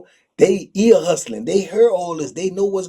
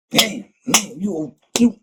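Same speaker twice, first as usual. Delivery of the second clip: higher, accusing voice of an inmate; confronting inmate; 7 semitones higher than usual. Retold or imitated. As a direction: corner him with the accusation.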